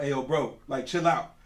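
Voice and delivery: lightly put-on casual bro; changed bro voice. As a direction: toss it off like a chill guy talking to friends. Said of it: "I'll change my voice up".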